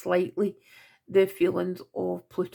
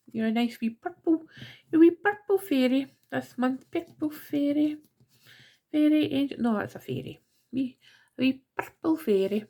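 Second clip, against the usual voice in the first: Scottish; 6 semitones higher than usual. Real, not acted. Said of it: "God, that sounded really Scottish there".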